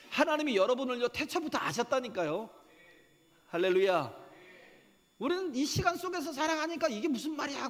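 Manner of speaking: high, loud, driving sermon delivery; fervent preaching. Acted. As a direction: preach it at full force to the congregation. Preaching at full force.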